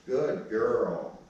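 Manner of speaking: trainer praising the dog after it heels. Real, not acted.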